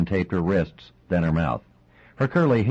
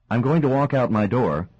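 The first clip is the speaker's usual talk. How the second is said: strained voice; 6 semitones higher, 3 dB louder than usual. A narrator's reading. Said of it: "her voice was filled with strain".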